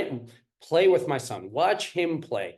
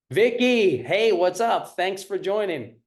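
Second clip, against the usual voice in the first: high, loud hello to a viewer; excited greeting; 4 semitones higher, 5 dB louder than usual. Real, not acted. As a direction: beam a cheerful welcome.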